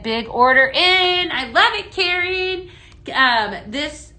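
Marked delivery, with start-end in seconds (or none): 0.0-1.3 reading an excited comment. Retold or imitated. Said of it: "Karen said". 1.3-2.7 higher, delighted squeal of thanks; host thanks a viewer for a big order, thrilled. Real, not acted.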